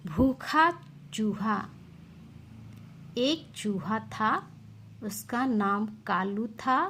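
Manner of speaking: slow, lively storybook reading; expressive read-aloud for young pupils; reading a story to children. Acted. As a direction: tell it like a bedtime tale for kids. Teacher reads story to children.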